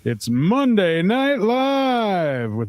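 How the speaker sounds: big, slow radio show intro with long-stretched words; radio announcer. Pretend. Co-host opens Monday Night Live and introduces the guest, radio announcer voice. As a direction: draw out each phrase like a ring announcer, pitch swooping up. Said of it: "you got that radio voice".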